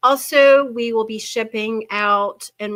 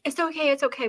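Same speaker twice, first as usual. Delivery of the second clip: higher, slightly panicky reassurance; mild retold panic; 6 semitones higher, faster than usual. Grandmother calming bleeding child, mildly panicked reassurance. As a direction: reassure while trying not to panic. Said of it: "like, a little panic".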